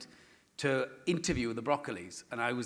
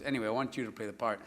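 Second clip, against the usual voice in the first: casual Spielberg line; 4 semitones lower, 4 dB quieter, faster than usual. Retold or imitated. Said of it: "he just goes like this".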